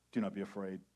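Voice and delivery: a hint of a soothing radio host. Angel calming a frightened person, radio-smooth. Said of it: "in his nice, lovely radio voice".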